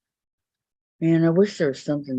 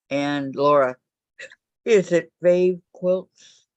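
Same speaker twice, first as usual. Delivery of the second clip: talking through the hiccups; hiccuping between words; 3 semitones higher, slower than usual. Real, not acted. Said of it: "Got the hiccups".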